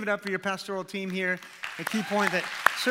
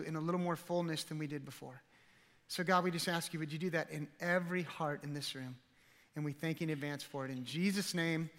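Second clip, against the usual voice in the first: earnest, soft-spoken prayer, sinking quieter at ends; pastor's prayer; 4 dB quieter than usual. Acted. Pastor praying over the congregation, softly and earnestly. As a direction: pray gently over the room. Pastor prays before sermon.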